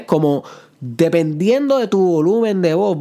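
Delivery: ordinary delivery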